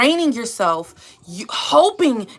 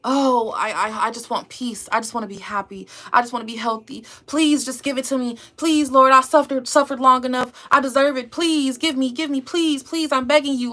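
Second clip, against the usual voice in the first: mock begging prayer; 2 semitones higher than usual. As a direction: imitate someone begging God for things. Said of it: "stop begging for things".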